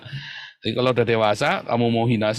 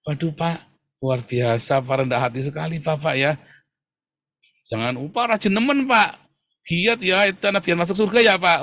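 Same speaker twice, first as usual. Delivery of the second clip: mock flattery. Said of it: "Anda harus puji dia".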